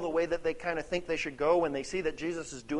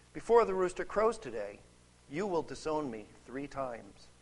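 measured, solemn Bible reading with deliberate pauses; formal narration, quotes lightly dramatized; scripture reading. A narrator's reading. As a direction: read the passage out to a congregation, phrase by phrase. Reads the scripture passage aloud.

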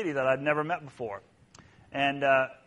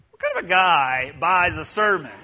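mock disdain; 3 semitones higher, 8 dB louder than usual. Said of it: "I said to myself".

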